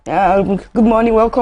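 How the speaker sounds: slow, posh-leaning British English greeting; British accent. Retold or imitated. Receptionist greeting arriving parents, in a slow British accent. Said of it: "receptionist greets parents with British accent".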